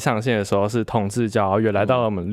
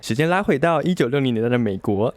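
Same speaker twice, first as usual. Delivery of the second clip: news anchor voice. Shown as a demonstration. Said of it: "用播音腔来讲这个".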